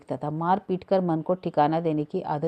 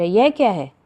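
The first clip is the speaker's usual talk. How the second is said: louder, startled question with some fear; frightened exclamation; 3 semitones higher, 8 dB louder than usual. A narrator's reading. Narrator seeing the anklet pulled from the basket, frightened exclamation. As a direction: blurt it out in alarm. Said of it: "मैं भयभीत भाव से कह उठा".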